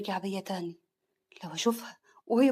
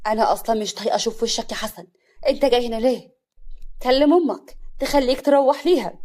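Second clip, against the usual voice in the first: scornful rebuff; 7 dB louder than usual. Acted. Afaf rejecting her former husband, irritated and louder. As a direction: send him packing with irritation.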